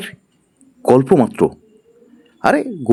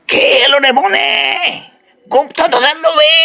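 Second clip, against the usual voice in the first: booming forest spirit; 9 semitones higher than usual. Acted. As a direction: call out like an eerie guardian of the forest. Forest voice challenges intruders.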